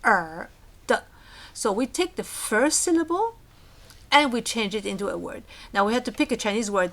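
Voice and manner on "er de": "ka, er, de" as three separate syllables. Shown as a demonstration. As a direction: break "ka, er, de" apart with pauses. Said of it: "in Chinese it would be three".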